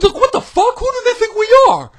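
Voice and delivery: angry shout. Real, not acted. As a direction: bellow it in disbelief. Repeated rant.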